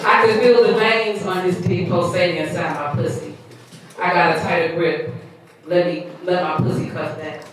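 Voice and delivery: measured spoken-word reading; poem recitation. Acted. Poet reciting own piece to listeners, spoken-word reading.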